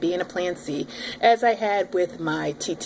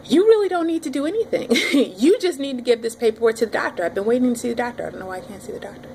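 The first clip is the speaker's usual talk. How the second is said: exasperated; 4 semitones higher, faster than usual. Retold or imitated. Exasperated retort to nurse.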